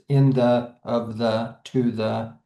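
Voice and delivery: "in the, of the, to the", two light beats each; both syllables unstressed. Shown as a demonstration. Teacher showing pyrrhics in prepositions, both syllables unstressed. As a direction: keep "in the, of the, to the" even, with no stress. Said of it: "unstressed and unstressed syllables together".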